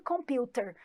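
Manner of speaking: computer with a crisp t and no r at the end; British t in computer. Shown as a demonstration. Teacher contrasting American and British accents, British way. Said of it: "Na pronúncia britânica".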